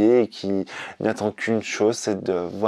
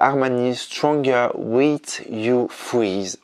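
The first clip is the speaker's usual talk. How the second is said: English accent; much slower than usual. Real, not acted. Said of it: "Désolé pour mon accent anglais qui est nul".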